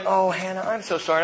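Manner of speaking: lightly acted motherly comfort; tender sympathy. Mom comforting her frightened daughter, tender sympathy. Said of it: "She got the tenderness".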